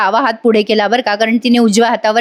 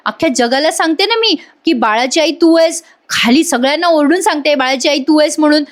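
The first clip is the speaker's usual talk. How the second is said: acted angry yelling; 4 semitones higher than usual. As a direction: play Arya snapping back at Nandini. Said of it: "Arya ओरडते नंदिनीवर आणि म्हणते".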